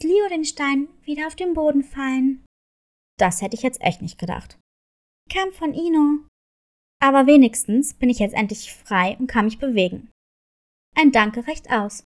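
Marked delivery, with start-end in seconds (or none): 3.2-10.1 low, fast wolf voice; a freed but grudging wolf; grumbling wolf. Acted. 10.9-12.0 winking reply. Acted. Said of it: "entgegnete Leo zwinkernd".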